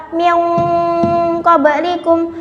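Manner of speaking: echoing bounce on the b in "qablikum"; "qablikum" with a bounced b; qalqalah sughra. Shown as a demonstration. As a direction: let the b of "qablikum" rebound briefly. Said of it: "harus dipatulkan suaranya".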